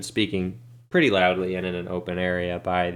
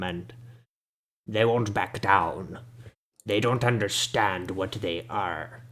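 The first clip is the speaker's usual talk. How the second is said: put-on slow, grumbling old man with big teeth; a shabby old local scolding the party. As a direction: hobble into it, dismissive and cranky.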